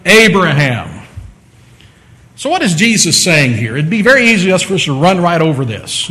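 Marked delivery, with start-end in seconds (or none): 0.0-0.9 drawn-out, weighty calling of a name; God calling Abraham. Acted. God calls Abraham to sacrifice his son, calling out solemnly. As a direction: call the name twice, deliberately, with a pause. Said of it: "When God speaks to Abraham to call him".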